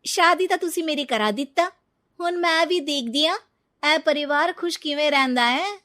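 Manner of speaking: bitter and loud, daring the family; angry vow. Acted. Bride vows revenge on new family, angry and loud.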